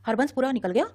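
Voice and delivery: excited shout. A narrator's reading. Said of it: "ऊंची आवाज में बोला".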